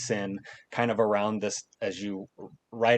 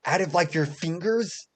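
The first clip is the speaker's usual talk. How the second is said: high, tumbling questions; eager kid; 6 semitones higher than usual. Acted. Boy asking the adventurer about swords, high and eager. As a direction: pepper him with questions.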